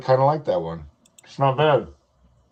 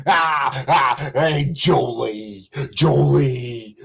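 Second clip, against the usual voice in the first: mock flirty greeting; much slower than usual. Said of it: "This whole, like".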